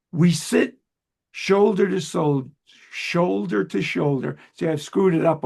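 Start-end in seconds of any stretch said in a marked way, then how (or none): 0.1-4.4 slow, measured poetry reading; deliberate, line-by-line verse delivery; poem recitation. Acted. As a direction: read the poem aloud with pauses between phrases. Reads guest's poem aloud.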